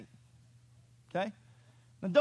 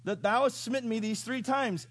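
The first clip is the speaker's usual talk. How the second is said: lightly voiced indignant donkey, higher; a hint of a complaining donkey; talking donkey; 4 semitones higher than usual. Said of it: "So the donkey said".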